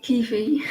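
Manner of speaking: "Kiwi" said as KEE-fee; regional coffee pronunciation. Retold or imitated. Streamer reading out a viewer's coffee, regional pronunciation. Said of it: "How do you say coffee?".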